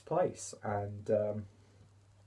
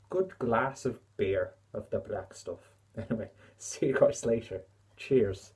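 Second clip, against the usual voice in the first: light put-on Irish accent; a hammed-up Irish lilt, not quite landing; playful fake Irish accent; mock Irish accent; 3 dB louder than usual. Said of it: "my terrible accent".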